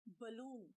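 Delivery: बलून with an unstressed 'buh' first syllable; short 'buh', then long 'loon' in बलून; correct pronunciation. Shown as a demonstration. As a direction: model बलून clearly, first vowel a schwa. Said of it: "बैलून नहीं बोलना".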